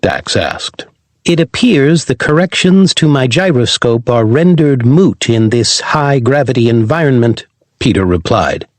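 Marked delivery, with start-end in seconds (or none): 1.2-7.5 lightly voiced robot companion; a hint of a polite robot dog. Robot Corgi character voice.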